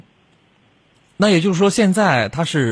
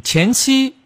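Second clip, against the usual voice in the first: surprised question; 11 semitones higher than usual. Real, not acted. Host surprised by caller's word.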